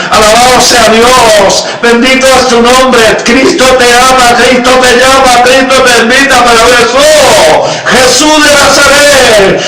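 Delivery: impassioned altar-call praise; fervent preaching. Real, not acted. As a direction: proclaim it to the congregation with rising fervor. Preacher's climax of praise and appeal.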